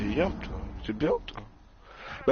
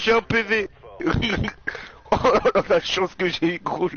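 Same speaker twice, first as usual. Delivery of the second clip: high, loud, giddy relief with laugh; excited; 7 semitones higher, 4 dB louder than usual. Real, not acted. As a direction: gush about the lucky break. Lucky escape, laughing.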